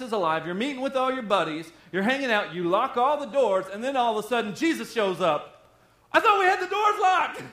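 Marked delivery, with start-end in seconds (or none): 6.1-7.4 high, loud startled cry. Acted. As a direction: blurt it out in shock. Startled disciples voiced.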